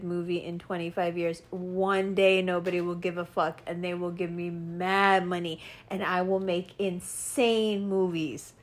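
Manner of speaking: a lightly voiced low, hushed scheming underdog; mock Jared Leto scheming. Mocking Jared Leto as he dreams of fame, hushed and scheming. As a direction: mutter grand plans like a jealous runt.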